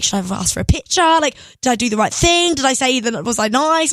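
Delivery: retold fretting, a touch of panic; freaking out. Singer frets after meeting her idol, mildly freaking out. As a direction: imitate anxious self-questioning after the moment. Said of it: "Like, freaking out".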